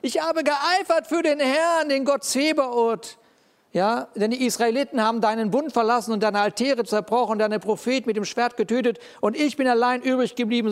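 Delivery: a hint of a weary prophet; Elijah's complaint. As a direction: pour out Elijah's bitter complaint. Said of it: "Er sagt".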